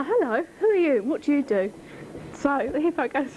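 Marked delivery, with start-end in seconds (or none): 0.0-1.7 lightly voiced inquisitive frog, higher; a hint of a curious frog in a joke. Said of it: "he goes to the hippo".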